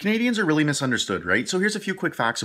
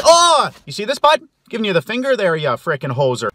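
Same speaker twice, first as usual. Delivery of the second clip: mock angry yell; 5 dB louder than usual. Canadian flipping off a driver, loud taunting shout. Giving the finger.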